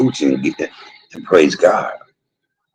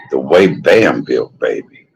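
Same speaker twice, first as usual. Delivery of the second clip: "the way Bam built" drawn out slowly and relished; slow savoring; 4 semitones lower, slower than usual. Shown as a demonstration. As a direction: linger on every word of "the way Bam built". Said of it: "And the way Bam built".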